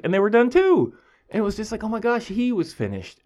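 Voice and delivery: high-pitched exasperated outburst, loud at first; mock-exasperated squeal of dismay; retold frustration. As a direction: reenact disbelief piling up, voice shooting up. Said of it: "it was so frustrating".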